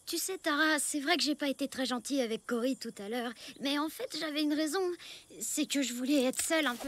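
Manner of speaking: soft, low, sincere admission; quiet confession. Acted. Girl admitting to friend why she was unkind, soft and sincere. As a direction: open up gently.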